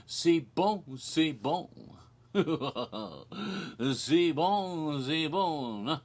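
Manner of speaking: lightly hammed-up French accent; mock-French murmur of approval; fake French accent. Performer after his silly song, in a fake French accent. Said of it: "I sang that funny French song".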